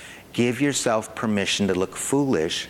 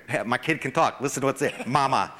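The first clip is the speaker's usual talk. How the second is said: proud parent. Pretend. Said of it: "You drag him over here".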